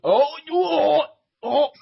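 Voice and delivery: loud high oh of sudden realization; sudden high-pitched realization; surprised realization. Real, not acted. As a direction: caught out by the pun. Realizing the Black Flag mix-up.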